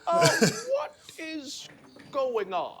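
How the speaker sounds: high, nerdy Victor Timely voice; squeaky nerd surprised by everything; smart science nerd voice. Acted. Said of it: "what's that voice you're doing".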